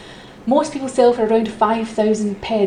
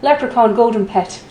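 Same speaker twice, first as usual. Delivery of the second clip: high, loud mock-Irish auctioneer; bad Irish accent; 5 semitones higher, 8 dB louder than usual. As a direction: put on a hammed-up Irish accent, pitched up and loud. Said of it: "do this one with an Irish accent".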